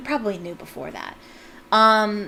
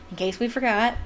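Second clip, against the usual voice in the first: laughing. Real, not acted. Mocking Percy's line, laughing.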